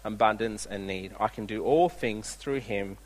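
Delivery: a preacher reading the text aloud, winding down to the close; scripture reading. Acted. Reads the scripture passage.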